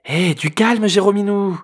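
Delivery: high, coaxing calm-down; soothing teen. A narrator's reading. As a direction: settle him down gently. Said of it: "tempéra l'ado". (ado qui apaise, voix aiguë)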